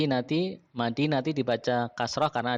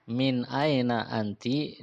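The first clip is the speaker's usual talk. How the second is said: slow repeat, "aina" drawn out with a rise; slower than usual. Shown as a demonstration. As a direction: say it again slowly.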